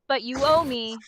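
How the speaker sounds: flat, sarcastic, dry delivery; deadpan sarcasm; monotone sarcastic. Pretend. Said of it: "In a monotone, sarcastic voice".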